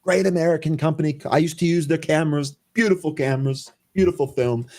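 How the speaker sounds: a hint of Trump boasting; Trump impression. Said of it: "I can just imagine him being like".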